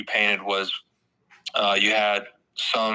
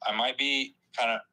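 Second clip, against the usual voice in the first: call dropping out; 4 dB quieter than usual. Real, not acted. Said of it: "Sorry, my mic cut out there".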